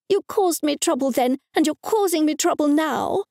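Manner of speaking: high, scolding mother's voice; furious religious mother. Acted. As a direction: berate the child in indignation. Angry mother tirade.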